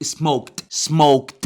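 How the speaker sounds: "سموكد" as one syllable, smokt; correct t ending. Shown as a demonstration. Teacher confirms the right past form, t ending. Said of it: "بالظبط".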